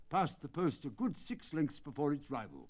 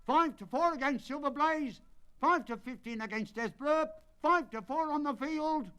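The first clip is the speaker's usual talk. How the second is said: high, loud bookmaker's roar; roaring odds; 11 semitones higher, 4 dB louder than usual. Acted. Bookmakers at the racecourse roaring the odds to punters, loud and high. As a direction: bellow the odds over the crowd. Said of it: "roared the ring".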